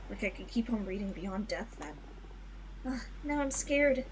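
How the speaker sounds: put-on soft, haunted young witch; quiet witch confession. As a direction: let the memory fade into fear. Voices Fortuna's confession.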